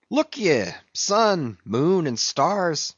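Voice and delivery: a hint of a high, summoning cry; lightly hammed-up sailor's invocation; defiant Stubb. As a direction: call up to the heavens, pitch lifted. Stubb calls on the heavens.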